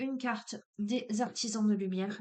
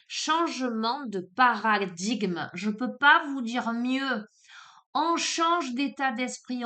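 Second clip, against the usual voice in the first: louder, slow, emphatic enthusiasm; loud, slow, thrilled card reader; excited; 3 semitones higher, 6 dB louder than usual. Real, not acted. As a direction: hammer home each point with real excitement.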